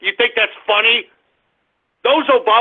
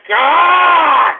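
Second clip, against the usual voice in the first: exasperated yell; 6 semitones higher than usual. Real, not acted. Host exasperated by prank callers.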